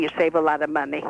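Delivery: put-on lively old Brooklyn bubby; Bubby's voice. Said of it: "This is Annie".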